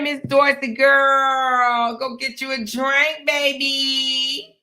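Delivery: drawn-out, loud call across the room. Real, not acted. Hollering a greeting to a viewer on her live. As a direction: stretch her name out and holler it.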